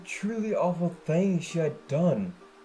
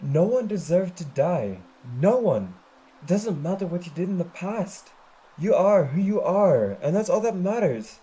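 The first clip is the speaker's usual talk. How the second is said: firm; 4 dB louder than usual. Acted. Applejack firmly reassures.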